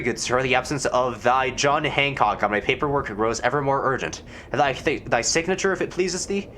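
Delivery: mild hammed-up Elizabethan gentleman; archaic formal. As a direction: press for the signature with mock courtesy. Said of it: "talking like this".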